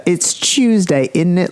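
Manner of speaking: put-on slow, stereotyped British accent; hammed-up Brit, British accent; mock British accent. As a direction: put on a cartoonish British accent, stretching the words. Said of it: "they don't talk like".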